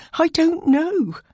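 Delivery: high, slow, insistent denial; emphatic protest. A narrator's reading. Protests to raging woman.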